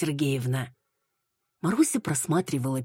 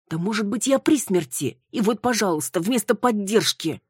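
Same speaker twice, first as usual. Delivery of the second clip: indignant complaint; 8 semitones higher, 5 dB louder than usual. Acted. Retelling the unfair accusations.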